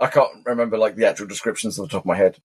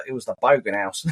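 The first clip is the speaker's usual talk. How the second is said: deadpan; 2 semitones lower than usual. Retold or imitated. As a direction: say it with a straight face. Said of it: "they do more deadpan faces".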